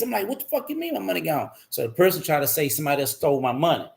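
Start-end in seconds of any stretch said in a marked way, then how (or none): 0.3-1.5 retold angry. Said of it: "I'm pissed".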